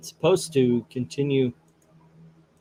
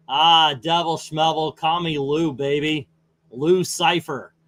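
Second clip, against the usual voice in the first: lightly voiced slick showbiz devil, slow; a hint of a smooth talk-show sidekick; Paul Schaefer voice; 4 dB louder than usual. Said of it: "my best Paul Schaefer".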